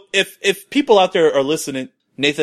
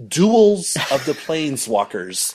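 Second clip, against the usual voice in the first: slow mocking title; 2 semitones higher, slower than usual. Shown as a demonstration. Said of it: "the name of it's just so ridiculous".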